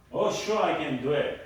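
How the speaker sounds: keen, willing yes; eager agreement. Shown as a demonstration. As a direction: agree readily, with a lift on "Oh, sure". Demonstrates willing versus reluctant reply.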